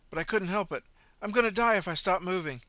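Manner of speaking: high, loud breathless pleading; panting out an excuse. Acted. Running man panting his excuse to the driver. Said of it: "the man replied breathlessly".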